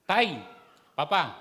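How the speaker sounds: put-on called out high and loud like a child; child calling father. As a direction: call out to Papa like an eager kid. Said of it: "ah, anak". (batang tumatawag sa ama, mataas at malakas)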